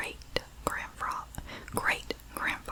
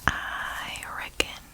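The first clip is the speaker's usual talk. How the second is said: Southern accent; slower than usual. Shown as a demonstration. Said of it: "with my accent".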